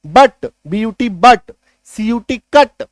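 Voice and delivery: बट and कट with "uh", spelled out slowly; slow, deliberate demo of बट and कट; short U examples. Shown as a demonstration. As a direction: model बट and कट, letter by letter. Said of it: "यू का sound अ".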